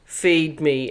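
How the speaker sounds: flat automated computer voice; robot voice. Pretend. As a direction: speak like a dull computer voice. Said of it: "that automated computer voice?".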